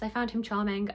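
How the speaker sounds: usual speaking voice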